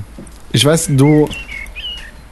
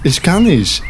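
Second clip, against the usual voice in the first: put-on French accent, raised; 2 semitones higher than usual. Frenchman explaining to Manfred, worried French accent.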